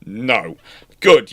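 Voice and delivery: usual speaking voice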